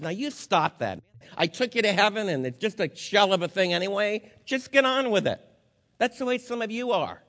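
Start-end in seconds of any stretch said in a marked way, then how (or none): 0.0-5.4 brisk, dismissive telling-off, climbing in pitch; mock scolding. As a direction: imitate someone impatient with another's grief. Mock scolding put in Jesus' mouth.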